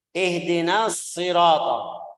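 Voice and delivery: slow Ihdinas sirata, ss held; doubled s. Shown as a demonstration. Teacher models the shad tasydid. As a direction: press the ss joining Ihdinas sirata. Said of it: "Ini lihat shadnya".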